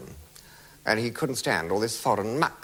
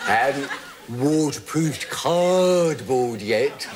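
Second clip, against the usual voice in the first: laughing; slower than usual. Real, not acted. Laughing at own line.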